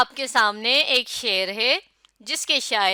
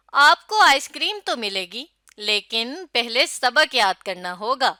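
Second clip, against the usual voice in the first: lively promise, firm condition; expressive coaxing. Shown as a demonstration. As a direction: coax a child with a treat, then be firm. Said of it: "اچھے انداز سے اس جملے کو پڑھا". (بچے کو پیار سے سمجھانا)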